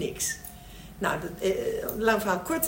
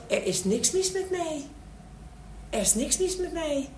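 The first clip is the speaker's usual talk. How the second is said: put-on pitched-up child declaring it; voiced child's protest; 8 semitones higher than usual. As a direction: insist in a high acted child's voice. Voices child's realisation in role-play.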